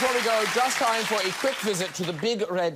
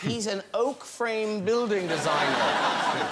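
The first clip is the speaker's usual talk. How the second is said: slow, savouring repeat with a laugh; amused echo; slower than usual. Real, not acted. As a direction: draw out the job title, tickled by it. Host echoes guest's job, amused.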